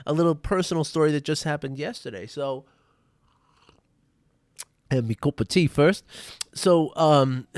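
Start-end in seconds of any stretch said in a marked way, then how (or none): 4.9-6.0 playful, louder mock-British accent; hammy amateur British accent; terrible British accent. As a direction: put on a jokey British accent. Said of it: "talk in these terrible British accents".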